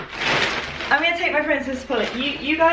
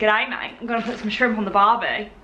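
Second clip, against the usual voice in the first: mock Australian accent; 2 semitones lower than usual. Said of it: "offending every Australian out there".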